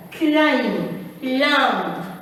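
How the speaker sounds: "climb" and "lamb" each ending on M, no B; silent B demo. Shown as a demonstration. Teacher recapping the rule, "climb" and "lamb" with silent B. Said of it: "We don't pronounce this book".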